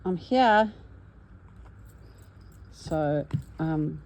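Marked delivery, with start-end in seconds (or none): 0.0-0.7 voicing the flower. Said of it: "I'm saying".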